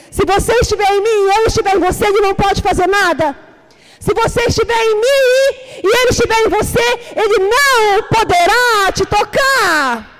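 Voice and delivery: building from firm to a crying shout; voice growing stronger. Retold or imitated. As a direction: let the voice of God swell until you're shouting through tears. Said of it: "a voz foi ficando mais forte".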